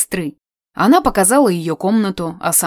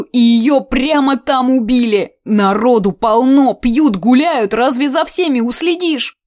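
put-on higher, louder folksy old woman; gossiping old aunt; 4 semitones higher, 4 dB louder than usual. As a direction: gossip with relish and horror.

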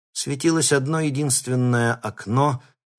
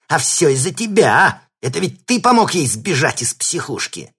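loud, higher furious accusation; angry yell; 8 semitones higher, 7 dB louder than usual. Acted. Thug yelling at the captive he grabbed. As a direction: shout it in his face.

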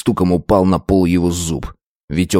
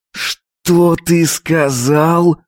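through clenched teeth; 9 semitones higher, much slower than usual. Acted. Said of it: "процедил я, сжав челюсти".

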